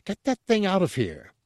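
high-pitched, indignant mock shout. A narrator's reading. Chef throws guard and corpse out, shouting. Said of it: "Porcellus shouted".

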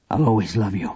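low, tender parting vow; a father's low-pitched goodbye; grave, heartfelt. A narrator's reading. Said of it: "had never heard Papa's voice sound like that".

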